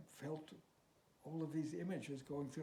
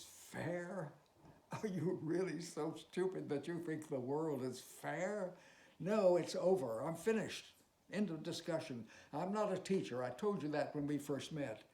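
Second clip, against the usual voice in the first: raised, sharp scolding voice; angry refusal; 3 semitones higher, 5 dB louder than usual. Acted. Teacher shouting at his student to end it. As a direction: snap it out, higher and louder.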